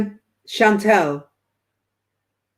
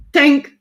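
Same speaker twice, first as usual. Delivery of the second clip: mock clink; 5 semitones higher, 5 dB louder than usual. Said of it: "he's going".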